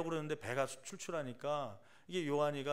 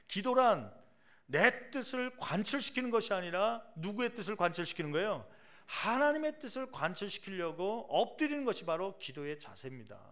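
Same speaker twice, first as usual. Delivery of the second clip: emphatic preaching; 4 semitones higher than usual. Acted. Preaching on the meaning of prayer.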